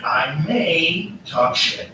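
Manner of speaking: slow, drawn-out mock warning; Trump. Mimicking Trump sizing up another leader, lightly mocking slow threat. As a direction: lightly imitate a veiled threat, very slowly. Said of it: "when Trump's talking to someone, it's always like".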